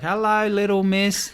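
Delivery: high singsong hello; mock-friendly greeting, lifted in pitch; playful cooing greeting. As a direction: coo at it like a pet, imitating. Local playfully greets approaching shark.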